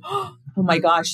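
a gasp, then a slowed imitation of shock; retelling a staff member's slow, gasping shock; mock shocked gasp. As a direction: gasp and drag it out as if stunned. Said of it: "the service advisors were shocked".

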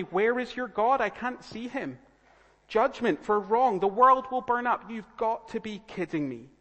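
high, loud, incredulous mockery; mocking scoffer. Scoffers challenging believers about God, mocking. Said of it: "when people come scoffing and mocking".

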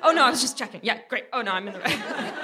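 hasty backtracking, half-laughing; lightly acted fluster; mock panicked. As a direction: cover a mistake with feigned breeziness. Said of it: "she panicked".

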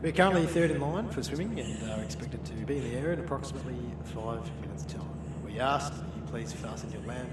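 a light airline captain announcement; pilot voice. Pretend. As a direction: lightly play the captain on the intercom. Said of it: "Your best pilot voice".

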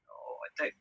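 a nervous private whisper; whispered worry. Retold or imitated. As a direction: whisper it to yourself, unsure. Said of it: "And I was just thinking".

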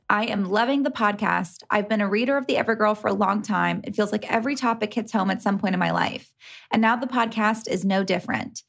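bright review read-out; cheerful reading of a listener message. Acted. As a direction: read the fan letter aloud. Reads listener review aloud.

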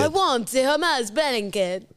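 slow, badly faked Italian accent; generic foreign accent. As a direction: labour through a fake Italian accent. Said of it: "generic accent you use for anyone".

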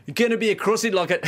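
put-on high Aussie accent slipping into Birmingham; failed Australian accent. Co-host attempting it on request, botched Australian accent. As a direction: try Australian and drift into Brummie. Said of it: "Now I'm doing bloody Birmingham".

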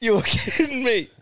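high-pitched, laughing incredulity; stunned and laughing, pitched right up; amused disbelief. Real, not acted. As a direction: react in real, delighted disbelief. Reacting to the caller's shocking story.

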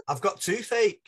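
high, loud whine of complaint; hammed-up moan of suffering; mock toothache wail. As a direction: wail it like a pained roommate. Roommate wails about toothache.

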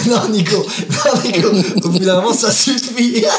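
mock scolding. Host scolding a player in jest.

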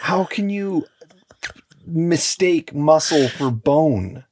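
breathy incredulous whisper, slow; stunned disbelief. Real, not acted. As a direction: ask it in horrified disbelief. Incredulous at the surgeon's error.

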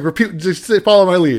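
loud, high mock coaching; urgent retold instruction. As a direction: urge a partner to play along, loudly. Retold urgent coaching mid-standoff.

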